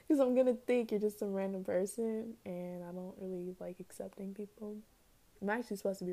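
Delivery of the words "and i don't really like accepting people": sheepish whispered admission; whispered confession. Real, not acted. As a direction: whisper it like a guilty secret. Confessing she dislikes accepting people.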